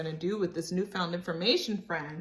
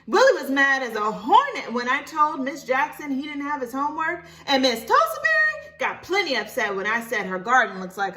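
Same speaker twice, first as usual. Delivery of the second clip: put-on a bit higher and louder little girl; lightly voiced child; 6 semitones higher, 7 dB louder than usual. Libby telling Mama who got upset, lightly higher child voice. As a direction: tell it like an eager child.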